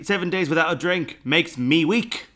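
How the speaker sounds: light mock-Cockney reading. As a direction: read it out like a Cockney. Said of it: "like, a Cockney voice".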